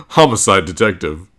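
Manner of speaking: Homicide detective said with a relieved laugh; laugh, then land Homicide detective cleanly. Real, not acted. Gets the word right at last.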